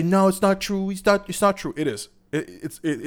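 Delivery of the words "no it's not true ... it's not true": mock denial. Mocking denial.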